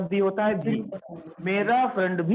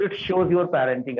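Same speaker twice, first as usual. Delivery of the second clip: slow taunting model; 2 semitones lower, much slower than usual. Shown as a demonstration. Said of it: "ऐसे करके लोग बोलते हैं".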